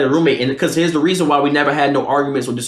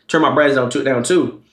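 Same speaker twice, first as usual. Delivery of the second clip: usual speaking voice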